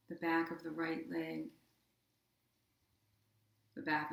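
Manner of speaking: even, unhurried meditation voice with long pauses; guided meditation. Acted. Yoga teacher guiding listeners through body relaxation, guided meditation. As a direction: guide them gently into rest, leaving space between phrases.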